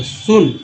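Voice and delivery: सुन with an "oo" vowel, "soon"; oo vowel demo. Shown as a demonstration. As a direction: model सुन with a rounded vowel. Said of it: "उ के रूप में".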